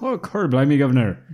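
loud, high stage-Cockney; Cockney accent. Retold or imitated. Playing the actor's cheeky Cockney reply, in hammed-up Cockney. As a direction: ham up an old London cockney. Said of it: "that kind of thing".

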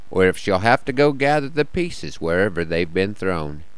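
measured cowboy poetry reading; cowboy poem recital. Acted.

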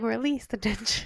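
soft, slightly mocking yoga cue; yoga teacher voice. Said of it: "at yoga and they're like".

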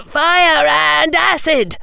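high, slow urgent shout. Acted. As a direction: yell it desperately. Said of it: "Harry shouted".

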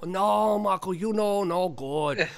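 lightly voiced accented director; a hint of broken-English director impression; John Woo. Director turning down the volunteer, lightly imitated refusal. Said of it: "And it's like".

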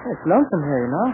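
lightly put-on British accent; Johnny Samber. Terry tests his disguise on Miss Chang, mild British accent. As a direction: play a British patient chatting from bed. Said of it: "I want you to pretend to be Johnny Samber".

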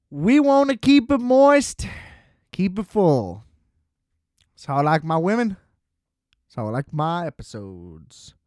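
hosting the intro in a goofy half-Southern voice, Ralphie May-ish; weird Southern accent. Pretend. Podcast host greets listeners, in a loose mock Southern accent. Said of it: "I could definitely pull off a full episode in this weird accent".

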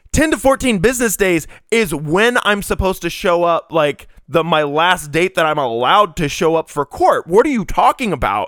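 mildly exasperated retold protest; incredulous. Arguing with the clerk about a court date, mildly incredulous. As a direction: argue it in disbelief.

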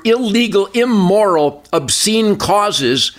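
exasperated, emphatic political rant; real frustration. Real, not acted. Guest railing at government scams on a nightly show, frustrated. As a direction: hammer out each damning word in genuine frustration. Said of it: "hear the frustration in my voice".

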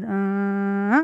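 long, level hum of a car on the road; imitated driving sound. Retelling the chef's directions to a shop, imitated driving noise. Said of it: "וגם את זה הוא הסביר עם קולות".

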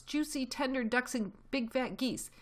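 high-pitched relish; greedy excitement. A narrator's reading. Small foxes licking their lips over dinner, gleefully high. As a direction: savor the food in a high voice. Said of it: "cried the small foxes, licking their lips".

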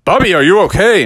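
high, loud worried check; parents' concern. Acted. Parents running over to crashed Bubby, urgent worried question. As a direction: call out in mild alarm. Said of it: "His mom and dad ran over and said".

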